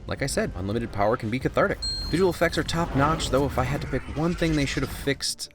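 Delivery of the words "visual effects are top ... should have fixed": whisper. Acted. Confiding complaint aside.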